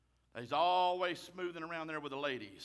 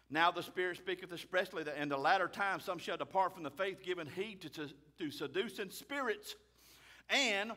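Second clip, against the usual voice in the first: scripture reading. Acted. Reads scripture aloud.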